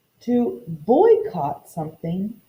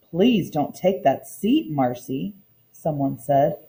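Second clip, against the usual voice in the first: expressive read-aloud storytelling for a class; story narration. A narrator's reading. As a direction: read the picture book aloud to the children, lively. Teacher reads storybook aloud.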